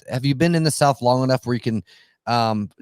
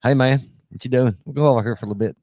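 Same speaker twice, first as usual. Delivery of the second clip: casual down-home Southern talk; Southern family accent; faster than usual. Acted. Imitating family back home for friends, light Southern accent. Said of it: "my entire family just about back home".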